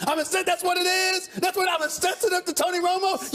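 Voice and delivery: mock guilty. Real, not acted. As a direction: ham up pleading guilty. Sarcastic mock confession of insensitivity.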